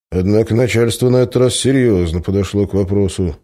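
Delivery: ordinary delivery, nothing marked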